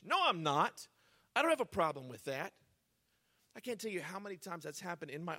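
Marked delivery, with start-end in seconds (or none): 0.0-2.5 mock defensive comeback; defensive denial. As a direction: imitate someone brushing off a concern, emphatically. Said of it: "you get defensive".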